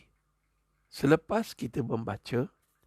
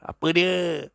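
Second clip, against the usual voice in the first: tag; 3 semitones higher, 4 dB louder, slower than usual. Acted. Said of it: "suami dah besar kan biji mata".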